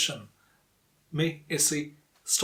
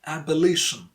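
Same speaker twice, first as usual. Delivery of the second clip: "abolition" with a longer, louder LI; stress on LI. Shown as a demonstration. Teacher models "abolition" for learners, stress on LI. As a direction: stress the third syllable of "abolition". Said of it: "must be longer and louder".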